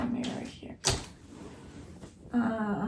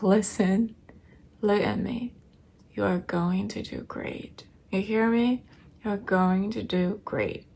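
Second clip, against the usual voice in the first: calm reassurance; 3 dB louder than usual. Retold or imitated. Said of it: "she was so calm".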